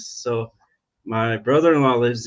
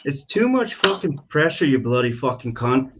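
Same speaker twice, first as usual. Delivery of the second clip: Aussie accent. Shown as a demonstration. Guest put on the spot by the host, mock-cursing in an Aussie accent. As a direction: have a middling go at an Aussie accent. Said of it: "mid-range on the Aussie accents".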